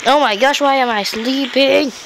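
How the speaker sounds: high, exasperated disbelief; baffled outcry. Real, not acted. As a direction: cry out in playful dismay. Game character suddenly falls asleep.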